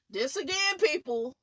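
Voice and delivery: high and loud, half laughing in disbelief; loud exasperated exclamation; exasperated outburst. Real, not acted. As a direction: throw it at the viewers, fed up. Ranting vlogger exclaims to viewers.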